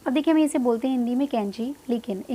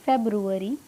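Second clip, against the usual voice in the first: फेब्रुअरी joined up but unhurried; gently slow; 3 semitones lower than usual. Shown as a demonstration. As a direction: say फेब्रुअरी carefully, every syllable kept. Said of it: "धीरे धीरे इसको बोलना है".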